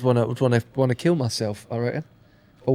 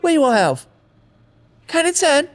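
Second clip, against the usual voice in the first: high cockney geezer voice; essex accent; 11 semitones higher than usual. Retold or imitated. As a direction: ham up a proud cockney. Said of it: "whenever these people go".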